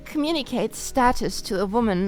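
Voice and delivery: put-on voice reading a message aloud; deliberate, emphatic read-out. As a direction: read it out like an earnest advert. Reads a message out loud.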